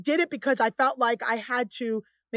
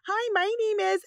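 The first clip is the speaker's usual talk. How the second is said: higher, put-on polite white-person voice; stereotyped white voice; 8 semitones higher than usual. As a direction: imitate a stereotypical white caller introducing herself. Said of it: "I talk like this".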